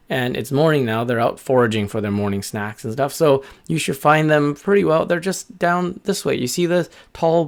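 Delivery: eager bird, high on the opening call; helpful little bird. Acted. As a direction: give directions as a chirpy small bird.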